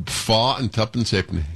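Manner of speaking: Yorkshire price, "halfpenny" squeezed to "ayp-nee"; Yorkshire accent. Shown as a demonstration. Host demonstrating the seller's price, Yorkshire accent. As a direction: imitate a Leeds market trader. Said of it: "able to mimic a Yorkshire accent".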